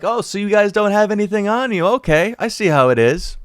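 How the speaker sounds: high, sarcastic imitation of the cop; mock cop voice. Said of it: "And then she's like".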